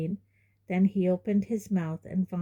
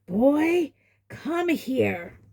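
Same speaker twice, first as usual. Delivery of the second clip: louder, higher bark; Uncle Vernon commanding; 7 semitones higher, 4 dB louder, much slower than usual. A narrator's reading. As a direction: summon him sharply.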